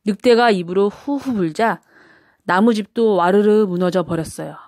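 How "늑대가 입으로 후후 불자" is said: ordinary delivery, nothing marked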